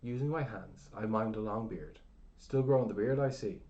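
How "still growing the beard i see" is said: raised voice for a deaf ear; a little louder. A narrator's reading. Narrator speaking up to a deaf old man, louder. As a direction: say it louder so he hears. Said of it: "I say a little louder".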